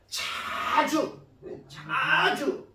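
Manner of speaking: 자주 with a hugely stretched first vowel; drawn-out emphasis. Shown as a demonstration. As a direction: stretch 자주 to show how often. Stressing how often the widow came.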